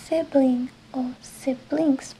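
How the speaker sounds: "sibling o siblings" slowly, stressing the s; slow teacher contrast; slow model words. Shown as a demonstration. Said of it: "Ponemos S si es de más".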